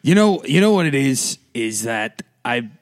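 a hint of a New Jersey accent; lightly put-on Jersey twang. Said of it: "this is why I sound like I'm from New Jersey right now".

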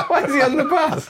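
giggling disbelief at the joke; laughing. Real, not acted. Laughs repeating plot hole.

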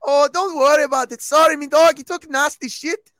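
high, loud hammed-up Scouser; over-the-top Liverpool accent; mock Scouse accent. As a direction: answer like a rowdy Liverpudlian. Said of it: "In British accents".

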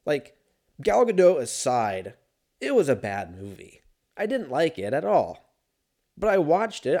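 ordinary delivery

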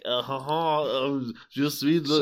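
lightly put-on French accent; halting Frenchified Welsh voice. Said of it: "He's had a French Welsh accent".

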